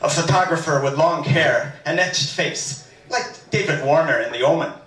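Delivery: reading with a light, put-on Irish lilt; a gentle mock Irish storyteller's accent; faux Irish lilt. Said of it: "a little bit of a faux Irish lilt".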